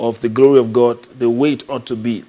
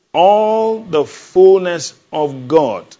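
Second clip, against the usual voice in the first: slow, loud, drawn-out proclamation; booming slow sermon climax; proclaiming; 5 semitones higher, 5 dB louder, much slower than usual. Acted. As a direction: stretch each word like a preacher's cry. Preacher proclaiming to congregation.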